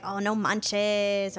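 slow, hammed-up Mexican accent; a deliberately terrible Mexican accent, drawn out; bad Mexican accent. Showing how she never mocks Mexican friends, in a bad Mexican accent. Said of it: "that was a terrible Mexican accent".

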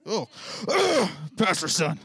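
loud, whiny sneer at pastor's son; scoffing teen whine; bratty teen voice. Retold or imitated. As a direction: play the entitled teenager, disgusted. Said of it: "age accuracy voice".

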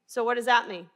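ordinary talk

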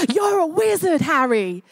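hammed-up accent for a film giant, falling on the name; dubious Hagrid accent. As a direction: put on a wobbly, uncertain movie accent. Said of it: "I don't know what accent that was".

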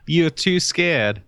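put-on slow, high Boston accent. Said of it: "Are you from Boston?".

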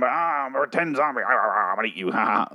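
lightly voiced pretend zombie growling at a kid; hammed-up playful monster; playful zombie dad. Acts dad playing zombie.

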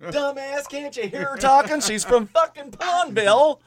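hammed-up exasperated telling-off; mock indignation. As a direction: pretend to be outraged at a clueless friend. Mock scolding of the co-host.

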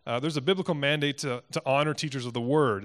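firm emphasis on biblical and word; emphatic. Real, not acted. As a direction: lean into "biblical" and land hard on "word". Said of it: "I want to say this emphatically".

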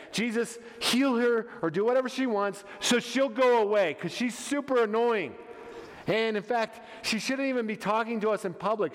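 mildly exasperated urging; annoyed disciples. Acted. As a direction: urge him to be rid of a nuisance. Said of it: "super annoyed".

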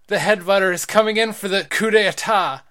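high, loud ringside announcer call; fighting game announcer. Acted. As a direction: hype the big finisher. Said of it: "Stop using an announcer voice".

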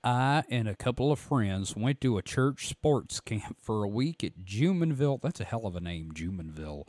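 lightly voiced Southern reader; a hint of a drawling storyteller; Phantoms and Monsters voice. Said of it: "my Phantoms and Monsters voice".

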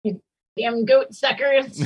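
put-on cranky old man shouting; shouting at trespasser. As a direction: yell at the kids on your lawn. Grumpy neighbour yelling at goats.

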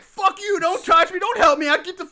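high-pitched mock-angry rant; pissed-off bald dude. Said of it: "the bald dude gets pissed off".

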